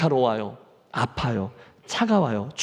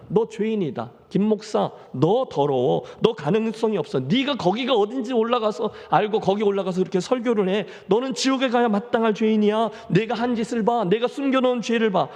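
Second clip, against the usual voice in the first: accusing Satan voice; 5 semitones higher than usual. Acted. Preacher voices Satan accusing him.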